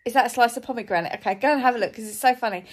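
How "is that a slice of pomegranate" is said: retold interviewer question. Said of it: "if you haven't heard it".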